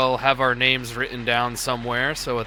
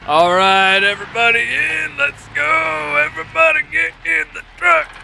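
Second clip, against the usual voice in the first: loud, high commanding call; shouting orders; 13 semitones higher, 7 dB louder than usual. Pretend. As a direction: yell orders at the troops. Rallying squad like an officer.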